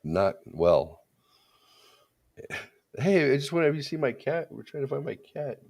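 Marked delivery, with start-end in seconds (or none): 3.0-5.6 mock placating call. Dad explains the lost cat to fleeing neighbor, high placating call. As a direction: call after someone, voice raised high to seem harmless.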